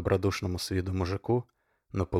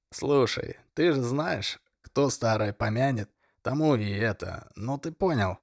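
put-on drunk hoarse voice; 4 semitones higher than usual. Hungover drunk begging Denis.

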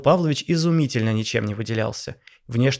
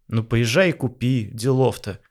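indifferent. Acted. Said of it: "пожал плечами Павел Павлович".

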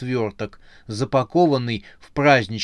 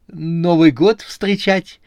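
high, slow, hesitant question; fearful suggestion, pitched up and drawn out; timid; 7 semitones higher, 6 dB louder, slower than usual. A narrator's reading. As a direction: venture a guess nervously. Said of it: "боязливо предложил клоун".

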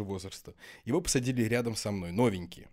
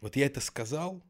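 slushy lisp from dental aligners; 2 semitones higher than usual. Real, not acted. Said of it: "из-за них я очень шепелявлю".

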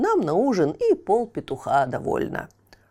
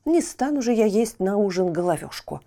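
annoyed watchman; 3 semitones lower than usual. Acted. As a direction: curse the burnt bird. Watchman curses burnt chick.

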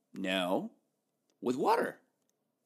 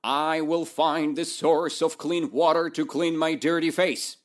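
loud, confident proclamation, rising to the end; proud goblin announcing his quest; proclaiming; 4 semitones higher, 6 dB louder than usual. Acted. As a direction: declare it boldly to the world. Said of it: "He proclaimed".

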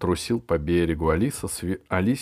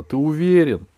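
higher, louder, urgent question; anxious girl; 8 semitones higher, 7 dB louder than usual. A narrator's reading. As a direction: press him anxiously.

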